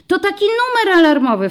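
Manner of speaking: put-on high, loud child voice; eager girl cutting in. A narrator's reading. Dorotka interrupts the policeman: high proud child voice. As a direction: chime in proudly like a little girl. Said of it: "wtrąciła Dorotka".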